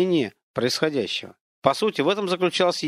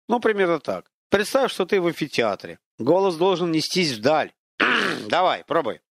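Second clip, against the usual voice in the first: lightly voiced haughty spirit lecturing a man; mocking unseen voice; 4 semitones higher than usual.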